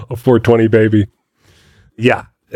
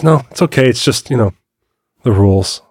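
casual correction, imitated. Eight-year-old letting dad know the room rules, casual. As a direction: imitate a kid's offhand reminder. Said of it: "the casualness".

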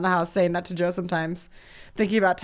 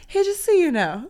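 acted warning; 10 semitones higher, 5 dB louder than usual. Acts out their irritable phone greeting.

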